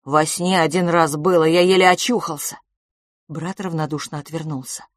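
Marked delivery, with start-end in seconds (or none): 0.1-2.6 put-on desperate pleading boy. Boy begs his silent twin brother, pleading desperately. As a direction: beg him to answer you.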